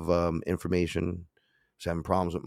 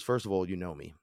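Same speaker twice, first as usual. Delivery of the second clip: much softer, calm divine voice; softer god voice; 7 dB quieter than usual. Retold or imitated. Ra explains himself to the speaker, quiet. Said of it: "he goes".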